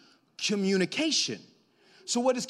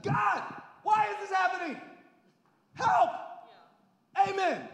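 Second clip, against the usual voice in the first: desperate prayer; 12 semitones higher than usual. Retold or imitated. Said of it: "I'll just be like".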